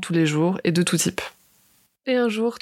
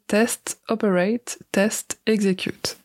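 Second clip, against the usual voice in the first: English accent; slower than usual. Shown as a demonstration. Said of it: "Vous excuserez mon accent anglais".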